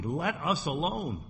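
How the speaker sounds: slow, drawn-out Let us alone; slow hostile quote. Acted. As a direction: dwell on each word with animosity. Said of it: "The animosity".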